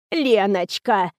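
a hint of a creaky old woman, slow; whining cracked voice. A narrator's reading. Old actress whines at the heroine, mildly cracked. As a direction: drawl the name like a doddering old lady. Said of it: "занудил надтреснутый голос".

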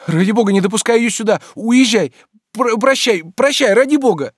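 frightened pleading. A narrator's reading. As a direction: push him away in fear. Frightened Oblomov begs friend away. (испуганная мольба, выше и громче)

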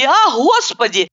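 «а Господи» drawn out slowly with a falling moan. A narrator's reading. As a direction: stretch «а Господи» into a long moan. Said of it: "охая, закатывая глаза и причитая".

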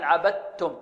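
عبدتم as "abattum", all t; عبدتم with a held pure t; complete idgham. Shown as a demonstration. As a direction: drop every trace of د in عبدتم. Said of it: "يصير تاء".

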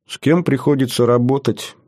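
a touch of sorrowful exasperation; rueful. Acted. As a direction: lament your colleagues with weary regret. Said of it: "печально покачал головой Лерман".

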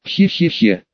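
light mock cackle, "хе-хе-хе"; a playful, lightly voiced wild laugh; half-hearted gleeful cackle. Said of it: "дико расхохоталась Полночь".

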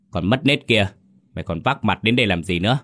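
a mild, half-voiced furious yell; angry shout. Mistress yelling at the servant's mother, mild angry shout. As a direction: bawl her out like an outraged mistress, lightly. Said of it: "gào lên".

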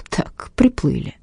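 slow, breathless whisper to herself; shocked whisper. Acted. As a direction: breathe it out, stunned. Инга понимает, что это её имя. (тихий потрясённый шёпот)

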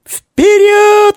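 high, loud battle cry; shout. A narrator's reading. Red-haired girl urges her troops forward, loud high shout. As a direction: yell the charge. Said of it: "закричала рыжая малышка".

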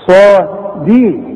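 صادي slowly with a heavy, full ص; صادي drawn out with an emphatic ص; heavy sad. Shown as a demonstration. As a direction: stretch the ص in صادي. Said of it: "مفخمة قوي".

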